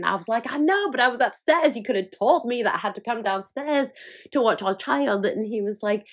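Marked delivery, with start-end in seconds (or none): 0.5-5.2 mock indignant reply. Retelling her reply to George.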